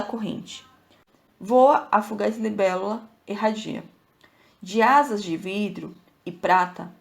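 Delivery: measured, reflective poetry reading; reading a poem aloud; poem recitation. Acted. Recites a sonnet.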